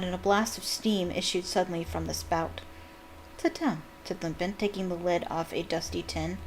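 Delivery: quiet storytelling, characters only lightly acted; story narration. A narrator's reading. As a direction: read from the novel, quietly and evenly. Reads a book passage aloud.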